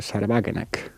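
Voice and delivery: German name in a Saxon-tinged accent; acento sajón. Real, not acted. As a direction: attempt the German pronunciation, a touch too Saxon. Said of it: "me ha salido demasiado sajón". (nombre alemán con acento sajón)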